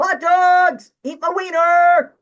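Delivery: very high, very loud, shrill, drawn-out vendor scream. Acting out selling hot dogs in a stadium: screaming hot dog vendor. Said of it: "And I'm screaming".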